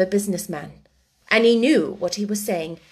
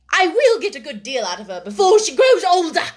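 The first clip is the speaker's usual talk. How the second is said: loud, high, indignant retort; vehement, raised voice; angry exclamation; 7 semitones higher, 6 dB louder than usual. A narrator's reading. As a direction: throw it back forcefully. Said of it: "exclaimed Miss Minchin".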